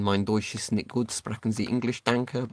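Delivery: halting beginner's German with an English accent; English-accented schoolbook German; bad German. Shown as a demonstration. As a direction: speak German badly, as an English speaker. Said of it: "I can speak German very badly".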